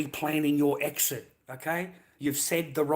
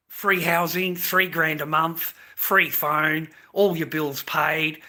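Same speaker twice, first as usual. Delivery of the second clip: louder, pushing each item like a jeering list; scornful mock-celebration, raised voice; sarcastic loud rant; 2 semitones higher, 4 dB louder than usual. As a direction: hammer the freebies home with mock delight. Mock-cheering rant about benefits.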